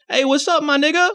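high, bright buddy greeting; casual friendly hey-man voice. Shown as a demonstration.

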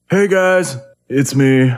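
a lightly voiced friend's intro; Austin impression. Shown as a demonstration. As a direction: greet the audience as Austin. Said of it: "I do a great Austin".

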